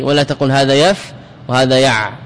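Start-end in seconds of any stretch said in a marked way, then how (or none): 0.5-1.1 يف cut short on a bare f; stopped with sukun. Shown as a demonstration. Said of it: "لأنه يقاف بالسكون". 1.5-2.1 يع cut short on a bare ʕayn; stopped with sukun. Shown as a demonstration. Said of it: "لأنه يقاف بالسكون".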